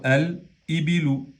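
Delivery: "al ibilu" with a clearly sounded L in al; lam pronounced. Shown as a demonstration. Teacher showing qamariya letters keep their lam, L clearly pronounced. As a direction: say "al ibilu", keeping the article's lam audible. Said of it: "en este caso pronunciamos la lam de al".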